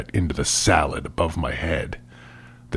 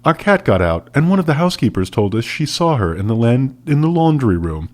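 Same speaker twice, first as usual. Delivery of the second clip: calm answer; 5 semitones higher, faster than usual. Acted. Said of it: "Maple answered calmly".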